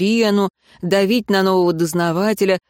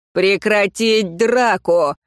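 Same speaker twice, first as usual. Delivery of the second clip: slow, firm command to stop the fight; barked order; much slower than usual. Acted. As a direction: bark it out slowly and firmly. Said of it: "рявкнул Гектор".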